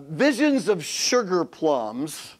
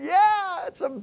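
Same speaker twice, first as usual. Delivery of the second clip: unimpressed reply; 12 semitones higher, slower than usual. Retold or imitated. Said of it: "And you're going".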